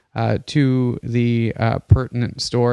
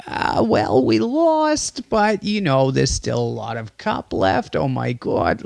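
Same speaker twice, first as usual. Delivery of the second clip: effeminate Jewish grandma. Retold or imitated. Interviewed live on TV after Spain lost, as a Jewish grandma. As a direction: gush like a fussing Jewish grandma. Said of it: "effeminate, like, Jewish grandma".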